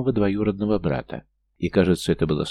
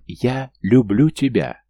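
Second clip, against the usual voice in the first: slow, raised, elated declaration; rapturous shout; 4 semitones higher, 5 dB louder, slower than usual. A narrator's reading. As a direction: proclaim it loudly, stretching the words in delight. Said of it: "прокричал он".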